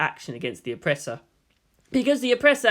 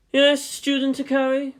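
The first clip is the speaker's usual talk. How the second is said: higher, kindly teacher voice; 9 semitones higher, 3 dB louder than usual. Acted. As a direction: answer a pupil kindly. Teacher answering pupil.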